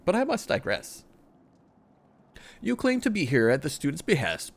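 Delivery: lightly voiced, earnest old scholar reporting; a hint of a worried elder scholar. Scholar reporting his lack of progress to a friend, lightly voiced. Reads NPC scholar dialogue aloud.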